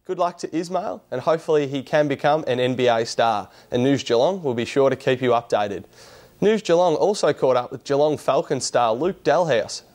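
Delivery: bright, measured news presenter read; presenter delivering a news piece to camera. Acted. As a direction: read it like the evening sports bulletin. Presenter reads news intro.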